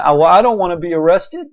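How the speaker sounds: a hint of a whining official, hurried; mock reluctant governor. Preacher mimicking governors who fear arrest, light mock reluctance. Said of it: "you're sitting there going".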